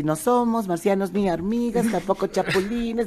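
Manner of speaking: slow, deliberate show catchphrase. Retold or imitated. Comedian on Saturday TV, slow catchphrase delivery. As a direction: deliver the line like on TV. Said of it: "Y yo el, el sábado así".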